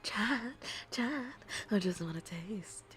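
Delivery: slow, hungry coaxing; lightly voiced hungry wolf. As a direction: drawl it out like a starving wolf.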